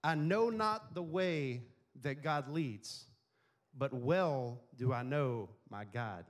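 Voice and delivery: slow, weighty reading of Luther; slow solemn quote. Retold or imitated. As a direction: lay each word down slowly, reverently. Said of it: "He said this".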